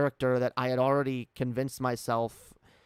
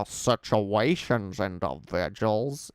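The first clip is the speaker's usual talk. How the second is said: mimicked voice; 3 semitones lower, slower than usual. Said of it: "I'm a bit of a mimic".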